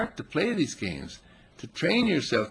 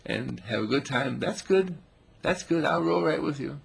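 a hint of a dog; 4 semitones higher, 4 dB louder than usual. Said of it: "He says".

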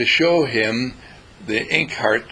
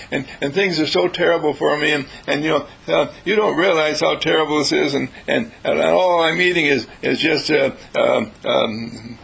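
a hint of a mournful prisoner's lament; mournful complaint; 2 semitones higher than usual. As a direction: plead and complain about everything that's gone wrong. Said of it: "This mournful, mournful voice".

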